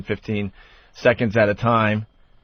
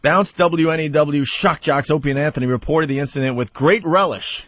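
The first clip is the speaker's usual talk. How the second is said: newspaper reading; 3 semitones higher than usual. Shown as a demonstration. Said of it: "reads as follows".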